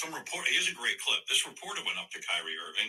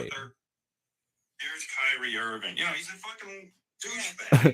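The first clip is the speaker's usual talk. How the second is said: slow, then a higher, louder jab on "douchebag"; Howard Stern clip; 5 semitones higher, 4 dB louder, slower than usual. Retold or imitated. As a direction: drawl the name, then spit the insult. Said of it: "Howard Stern got to say".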